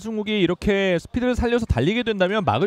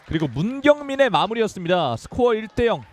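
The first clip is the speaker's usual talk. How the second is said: goal call; 5 semitones higher than usual. Real, not acted. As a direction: belt out the scorer and score. Announcing goal and score.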